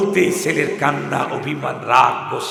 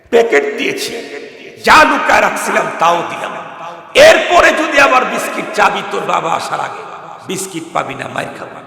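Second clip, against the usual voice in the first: stern warning; 4 semitones higher, 8 dB louder than usual. Retold or imitated. Mother sternly warns child.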